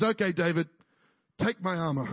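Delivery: a hint of a lazy king, low; lightly voiced Saul. Saul offers David his armor, lightly mocking. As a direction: hand over the armor with a shrug. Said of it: "he says".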